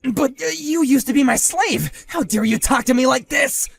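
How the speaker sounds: loud, high indignant yell; how dare he talk back; outraged yell. Acted. Husband outraged at his former lackey, indignant shout.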